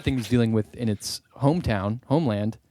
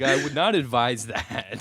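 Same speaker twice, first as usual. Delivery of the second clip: slow advisor voice; slower than usual. Retold or imitated. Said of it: "He's like".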